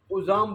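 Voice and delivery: عظام said as u-zaam with a clear u; عظام with short u, stress on zaam; correct pronunciation. Shown as a demonstration. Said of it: "لفظ کیا ہے صحیح؟".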